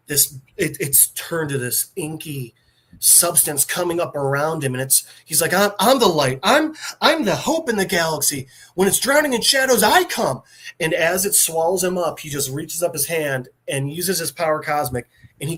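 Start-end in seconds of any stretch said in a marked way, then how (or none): 5.5-10.4 rising heroic declaration. Retold or imitated. Surfer declaring himself the light.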